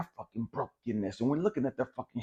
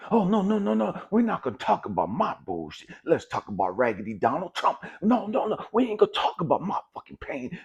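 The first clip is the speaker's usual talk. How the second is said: higher, whiny dodge of the subject; mock deflecting voice; 4 semitones higher than usual. Mocking the deflector to the audience, higher and whiny. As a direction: parody someone steering away from their own pain.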